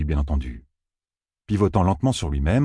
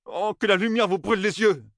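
higher, grumbling curse flung at them; grumbled curse; 14 semitones higher than usual. A narrator's reading. Matt grumbling a curse at the strangers, higher and annoyed. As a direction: spit the curse out in irritation. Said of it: "maugréa Matt".

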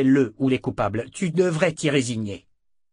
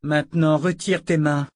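louder, higher threat; sharp command; 5 semitones higher, 4 dB louder than usual. Acted. Callan orders Michael again to let go, sharp and louder. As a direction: bark the order at him.

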